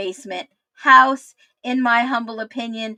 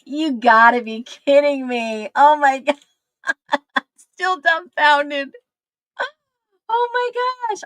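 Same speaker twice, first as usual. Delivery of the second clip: stunned excitement; 6 semitones higher, 6 dB louder than usual. Real, not acted. Reacting to shocking video.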